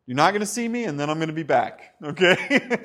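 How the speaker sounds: light, chatty Jesus voice; playful paraphrase. Acted. Preacher paraphrasing Jesus casually to the congregation. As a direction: toss it off casually, half laughing.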